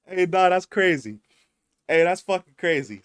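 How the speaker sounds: exaggerated roadman accent; mock South London accent; put-on London voice.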